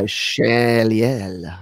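Shaliel drawn out slowly in an accent; accented pronunciation. Shown as a demonstration. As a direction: put on an accent, stretching the name. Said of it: "I like the accent".

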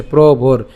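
প্রবর in two parts, pro-bor; careful pro-bor demo of প্রবর; broken-up pronunciation. Shown as a demonstration. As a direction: say প্রবর with র closing the last syllable. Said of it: "আর একটু ভেঙে দিই".

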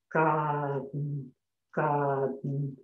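"garden" said as "gadn"; silent r in garden. Shown as a demonstration. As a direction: drop the R, say "gadn". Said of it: "aqui eu só falo o G, o A e o D e o N".

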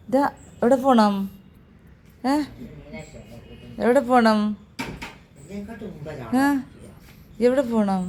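high, loud sing-song call to a pet; high pet talk. Real, not acted. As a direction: coo the question up high like to a little animal. Cooing to a pet.

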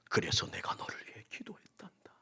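breath-only comforting whisper. Acted. Jesus telling Peter, whispered comfort. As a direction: murmur the promise.

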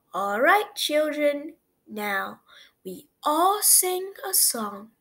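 bright classroom teacher. A narrator's reading. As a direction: call the class together cheerfully.

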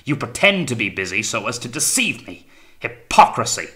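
loud, high outburst capped by a shout; blaring accusation. A narrator's reading. Captain accusing Wellard of pretending, blaring angrily. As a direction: rage upward to an explosive last word. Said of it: "blared the captain suddenly".

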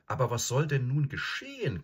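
high-pitched complaint; plaintive. Acted. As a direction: wail it mildly, high and helpless. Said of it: "klagte Susan".

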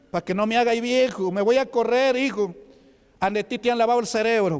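a scoffing dad defending his football; mocking father.

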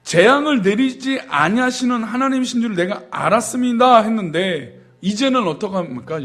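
mocking Jonah. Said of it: "하나님의 성품을 비아냥거리고 있는 것이죠".

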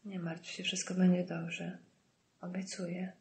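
bardzo cicho, słabym głosem rannego; ciche pocieszanie. A narrator's reading. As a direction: uspokajaj ją resztką sił, półgłosem. Ranny brat pociesza siostrę. (słabe, ściszone zapewnienie)

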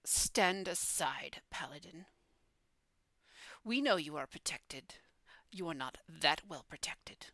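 lightly voiced fiend, measured and partly whispered; a hint of a menacing devil giving terms; commanding pit fiend. Game master voices the pit fiend.

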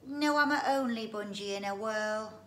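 high, loud boastful creature voice; squeaky bragging bungee; proud squeaky creature. Acted. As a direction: crow it out like a proud little beast. Bungee voice again.

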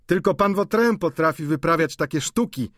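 lightly voiced amused maid; maid Sylwia. A narrator's reading. Maid chuckling about Vautrin's antics. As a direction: maid admiring Vautrin's tricks.

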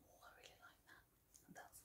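very soft, voiceless whisper. Retold or imitated. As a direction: whisper the quoted compliment under your breath. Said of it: "don't know why I'm whispering".

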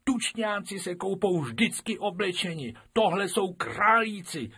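a pupil standing her ground; insistent girl. Acted. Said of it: "trvala na svém Krupičková". (umíněná holčička, mnohem výš)

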